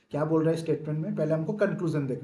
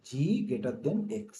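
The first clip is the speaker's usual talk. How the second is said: slow reading; much slower than usual. Shown as a demonstration. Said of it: "conclusion में क्या दिया है".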